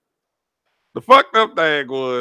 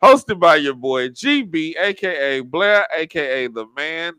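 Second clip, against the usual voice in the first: ringmaster. Acted. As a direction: announce it like a circus ringmaster. Podcast intro announcement.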